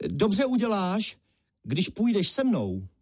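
high, stretched-out hail; calling out. A narrator's reading. Honza inviting the strongman along, calling out. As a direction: call the invitation up to him. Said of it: "A zavolal na něj".

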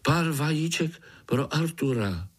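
calling out. Acted. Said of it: "Tohle Pája zvolal".

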